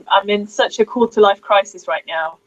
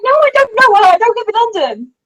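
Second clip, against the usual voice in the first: high-pitched, American-sounding mock reply; mock American accent; 11 semitones higher, 4 dB louder than usual. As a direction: answer in a put-on American voice, high. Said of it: "that sounded very American, too".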